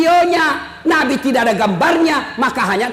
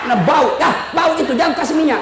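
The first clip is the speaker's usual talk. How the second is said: wife's complaint; 2 semitones higher than usual. Retold or imitated. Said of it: "marah-marah istri saya".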